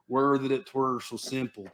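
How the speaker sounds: slow, mock British movie line; mock British accent. Mocking somebody's fix for the world, mock British accent. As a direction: stretch it out in a put-on British accent. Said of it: "we like to go".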